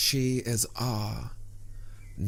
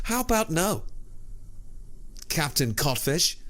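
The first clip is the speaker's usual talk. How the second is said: higher, scornful mock-sweet comeback; sarcastic retort; 7 semitones higher than usual. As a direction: toss it back with scorn.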